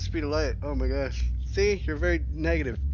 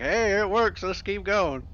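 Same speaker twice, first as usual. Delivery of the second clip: put-on dumb hick Southern boy; 6 semitones higher, 4 dB louder than usual. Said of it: "I'm just some dumb hick Southern boy".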